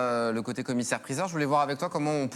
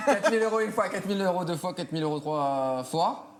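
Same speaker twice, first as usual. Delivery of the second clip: higher auctioneer call settling down; 3 semitones higher than usual. Pretend. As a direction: count down the bids like an auctioneer. Closing the mock auction.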